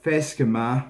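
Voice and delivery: Fesca Ma said as a Scottish Gaelic greeting. Shown as a demonstration. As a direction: say Fesca Ma in native Gaelic sounds. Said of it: "as we say in Scottish Gaelic".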